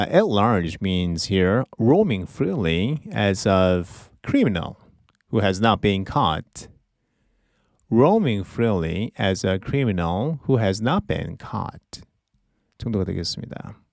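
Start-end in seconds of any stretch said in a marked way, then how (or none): 0.0-12.0 slow explaining. Shown as a demonstration. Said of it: "teacher explains slowly".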